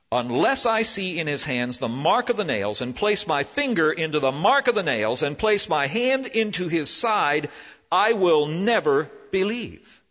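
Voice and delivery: mildly annoyed, insistent refusal; stubborn doubter refusing to believe; irritated Thomas. Acted. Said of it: "He seems irritated".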